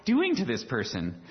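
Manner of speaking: shocked disbelief, pitch leaping up on what; imitating someone aghast at a cruel request; incredulous. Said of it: "you'd be like".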